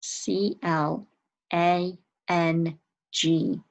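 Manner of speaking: letters of "clang" spaced out slowly; slow spelling. Shown as a demonstration. Teacher slowly spells the word for young students. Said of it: "How did you spell clang".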